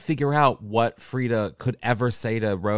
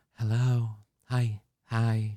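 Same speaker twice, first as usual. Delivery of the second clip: delicate, dainty phone voice; 3 dB quieter than usual. Describing how Michael sounds answering the phone, imitating Michael's dainty phone voice. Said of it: "it's so dainty".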